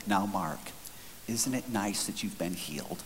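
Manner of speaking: pastor's wife. Retold or imitated. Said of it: "The pastor's wife in the back seat".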